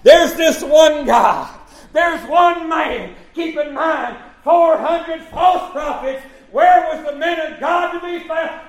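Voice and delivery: high, slow pulpit cry; forceful preaching. Real, not acted. Preacher telling of one man against four hundred false prophets, forceful preaching. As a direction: preach it out to the congregation.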